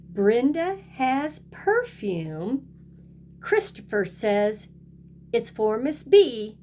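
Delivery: lively picture-book read-aloud with a sing-song refrain; storybook voice for little kids; reading to children. A narrator's reading. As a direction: read it like storytime for a kindergarten class. Teacher reads picture book to class.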